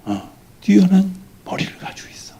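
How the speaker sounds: whisper. Acted. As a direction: breathe it like a secret to a child. Mother's secret words to child. (아이에게 속삭이듯)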